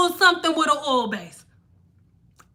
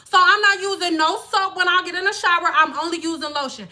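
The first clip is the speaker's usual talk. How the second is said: mocking imitation; 2 semitones higher than usual. Mocking people who skip soap, lightly put-on voice. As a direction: mimic someone smugly explaining their no-soap routine. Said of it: "That is how y'all sound".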